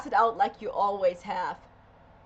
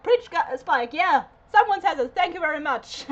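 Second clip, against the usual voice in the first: higher, louder cheer of approval; re-enacted cheering; 4 semitones higher, 4 dB louder than usual. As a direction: cheer the speaker on. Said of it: "I was like".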